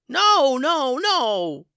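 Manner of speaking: high, loud frantic cry; yelling. Acted. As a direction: shout to stop the fight. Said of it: "yelled Vernon".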